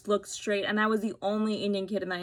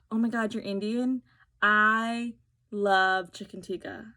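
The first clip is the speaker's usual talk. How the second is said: gushing stranger; 5 dB louder than usual. Retold or imitated. Stranger gushing about Indian food to her, mock excited. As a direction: ham up the eager food fan.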